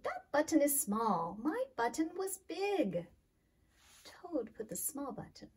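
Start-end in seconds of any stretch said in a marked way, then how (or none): 0.0-3.1 louder, higher cry of protest; upset cry. Acted. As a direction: protest the wrong button. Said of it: "cried Toad".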